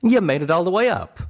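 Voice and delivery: a friend relieved and alarmed; Calamity's voice. Acted. Calamity's voice, concerned.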